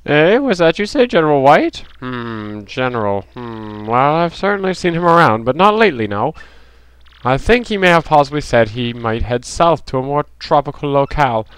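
game character. Acted. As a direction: play a musing game character with swooping pitch.

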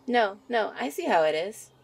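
teasingly offended at her laughing sweetheart; mock offended. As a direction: play at being wounded, loudly.

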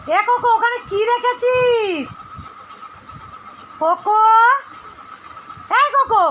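high, slow sing-song call; calling the dog. Real, not acted. Owner calling Koko away from digging, high sing-song call.

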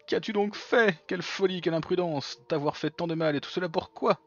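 high theatrical villain, lightly voiced; hint of a grand menacing villain. Voices game villain lines.

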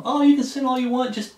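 lightly voiced flippant churchgoer mocked; mocking easy believer. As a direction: toss it off like a mocking shrug. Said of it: "This easy believism".

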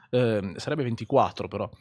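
usual speaking voice

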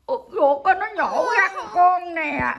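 high, drawn-out cry of sympathy; pitying fuss. Real, not acted. Grandmother greets the pet back from surgery, pitying fuss. Fussing over the dog after surgery.

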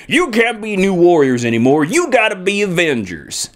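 a hint of a Southern American accent; mock Southern Captain America voice. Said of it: "I made Captain America very Southern".

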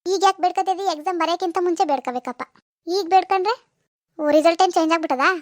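lightly voiced mother ribbing her daughter; teasing mother. Mother mocks late praying. (ಮಗಳನ್ನು ಹಾಸ್ಯ ಮಾಡುವ ತಾಯಿಯ ಸ್ವಲ್ಪ ಗಟ್ಟಿ ಧ್ವನಿ)

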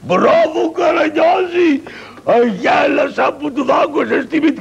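high gleeful shout of praise; gleeful cheer. Acted. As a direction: cheer him on, delighted. Cheering the bite.

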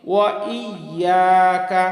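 slow "ওয়া ইয়াকা", separate I, long YA; sounded hamza. Shown as a demonstration. Teacher modelling the word, slow sounded hamza. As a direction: lean on the I after "ওয়া". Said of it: "হামজা ইয়া জের ই".

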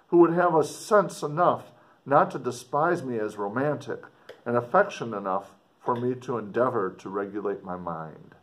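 put-on measured read-aloud of an old letter. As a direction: read it like the writer speaking to his sister. Teacher finishes the letter passage.

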